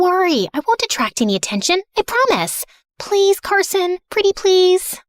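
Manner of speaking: coaxing plea; pleading. Acted. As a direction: wheedle him with a long, high please. Begging her guard to let her go.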